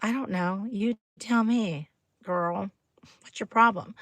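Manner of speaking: mildly sassy, unbothered retort; lightly acted dismissive comeback; cool comeback. Answering snotty girls about a fake Labubu, coolly sassy. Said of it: "You can go".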